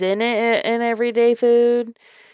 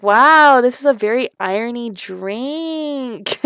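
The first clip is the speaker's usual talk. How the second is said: mock surprised taster; 3 semitones higher, slower than usual. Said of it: "that you would be like".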